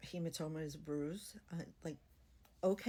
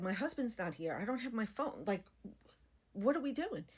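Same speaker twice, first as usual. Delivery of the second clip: rising panic; 3 semitones higher than usual. Retold or imitated. Patient to surgical staff, rising panicked plea. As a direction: let the worry build to a panicked plea. Panicking before unexpected surgery.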